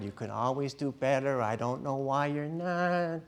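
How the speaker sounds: lightly voiced whiny parent; whiny, never satisfied. Parent teaching a child about God, mildly whiny. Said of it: "whiny, never satisfied".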